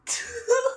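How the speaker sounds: short high-pitched laugh; high giggle. Real, not acted. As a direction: giggle after squealing. Laughs after her squeal.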